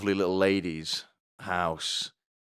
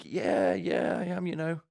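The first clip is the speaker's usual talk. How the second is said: coy reply; 11 semitones higher than usual. Retold or imitated. High coy reply to compliment.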